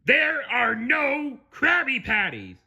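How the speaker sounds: slow, high, frantic announcement; shout. Acted. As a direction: yell it word by word in panic. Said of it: "he shouted".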